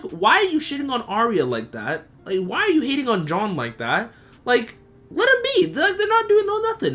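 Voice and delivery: high, fed-up pleading; exasperated scolding. Retold or imitated. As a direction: tell her off, exasperated. Scolding young Sansa.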